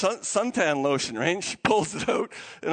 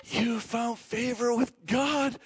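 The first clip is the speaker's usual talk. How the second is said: higher, lightly acted reassurance; reassuring angel; 4 semitones higher than usual. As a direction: play soothing someone startled. Gabriel reassures Mary with excitement.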